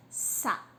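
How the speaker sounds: "Sapato" with long gaps, sa... pa... to; three isolated syllables in "Sapato". Shown as a demonstration. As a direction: sound out "Sapato" beat by beat. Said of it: "dividir a sílaba sapato".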